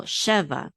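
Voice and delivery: sheva stressed at the beginning; stress on first syllable. Shown as a demonstration. Teacher contrasting accents for learners, first-syllable stress on sheva. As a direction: hit SHE in sheva, let va drop. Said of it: "it's on the beginning".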